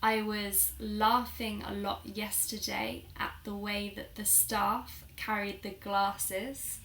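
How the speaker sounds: "laughing", "staff", "glasses" with long "ah"; long AH words. Shown as a demonstration. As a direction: demonstrate the southern British broad A in "laughing", "staff", "glasses". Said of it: "words in this lexical set".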